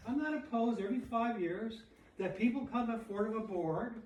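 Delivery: high, loud imitation British voice; mock British accent. Quoting Shaw on who should live, mock British accent. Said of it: "he says in his British accent".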